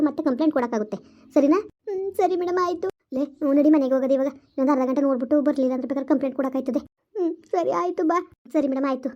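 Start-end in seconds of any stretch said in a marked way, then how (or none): 1.9-2.9 high, weepy assent; tearful. Acted. Crying mother answering the teacher, tearful. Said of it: "madam, ಅಳ್ಬೇಡಿ ಸುಮ್ನಿರಿ". 7.2-8.2 high, weepy agreement; tearful. Acted. Crying mother agreeing to go home, tearful. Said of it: "ಅಳ್ಬೇಡ ಸುಮ್ನಿರೆ".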